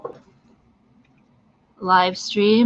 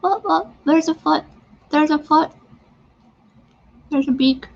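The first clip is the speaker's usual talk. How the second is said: high, delighted noticing; sudden excited high exclaiming; excited discovery; 7 semitones higher than usual. Real, not acted. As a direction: point out each new shape with glee. Spotting shapes in her face paint.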